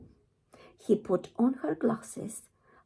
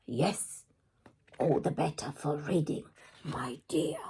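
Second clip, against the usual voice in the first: sneer; 4 semitones lower than usual. Acted. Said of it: "with a sneer".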